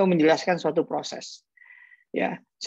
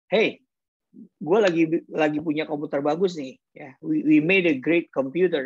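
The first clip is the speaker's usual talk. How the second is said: eager salesman. Retold or imitated. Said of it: "maka dia jualannya akan begini".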